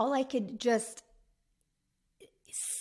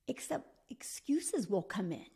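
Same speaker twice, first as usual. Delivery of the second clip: whisper; 4 dB quieter than usual. Acted. Warning viewers about excuses.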